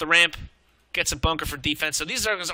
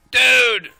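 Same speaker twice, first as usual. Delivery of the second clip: excited; 6 semitones higher, 8 dB louder than usual. Real, not acted. Excited reaction to the play.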